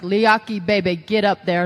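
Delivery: lightly imitated coach's drawl; a hint of a big-talking trainer; Dusty Rhodes. Trainer calling Roman up, lightly imitated coaxing order. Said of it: "this is a Dusty impression".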